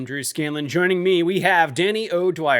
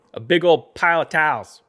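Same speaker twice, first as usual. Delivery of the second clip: put-on Pittsburgh accent; 2 semitones higher, 5 dB louder than usual. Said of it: "I'm talking accents".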